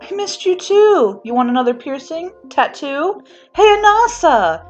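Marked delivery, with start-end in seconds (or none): 3.5-4.6 high, loud, long call; yelling. A narrator's reading. Sister summoning a coworker, yelling. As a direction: holler it toward the back room. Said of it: "she yells toward the back".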